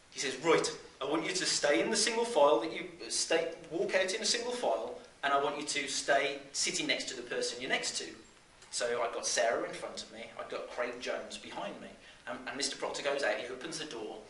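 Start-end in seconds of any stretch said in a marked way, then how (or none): 0.4-8.1 raised Brummie teacher's voice giving orders; Brummie accent. Acted. Teacher orders kids into single file, in a Brummie accent. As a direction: marshal the class in broad Brummie. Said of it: "in his best Brummie accent".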